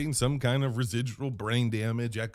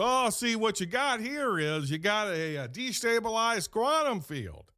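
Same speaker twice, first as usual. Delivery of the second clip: much higher, lightly voiced know-it-all tech; tech guy; 9 semitones higher than usual. Tech guy on the line diagnosing the problem, high know-it-all. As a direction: play the smug tech expert. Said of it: "some guy gets on the line and goes".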